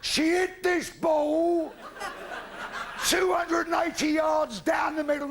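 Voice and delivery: loud, laughing build to the punchline; loud laughing shout. Real, not acted. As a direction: belt out the big finish.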